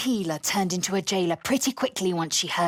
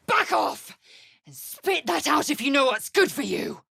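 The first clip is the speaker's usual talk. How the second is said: angry warning; 5 semitones higher than usual. Acted. Attacked, warning someone off.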